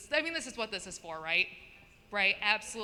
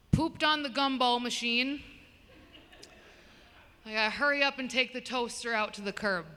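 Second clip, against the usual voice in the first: serious tone. Retold or imitated. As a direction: say the mixed-up words with total gravity. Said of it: "with the most serious tone".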